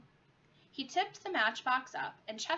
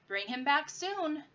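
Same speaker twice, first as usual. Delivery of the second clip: calling after them; 6 semitones higher, 4 dB louder than usual. Acted. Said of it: "Mickey called after them".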